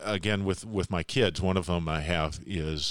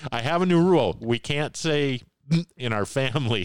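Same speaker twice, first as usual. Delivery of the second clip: put-on high, louder little kid voice; cherubic child voice; 7 semitones higher, 4 dB louder than usual. Four-year-old son in the back seat declares a family rule, high and childlike. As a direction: play the small boy proudly declaring his rule. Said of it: "this little cherubic voice from the back seat".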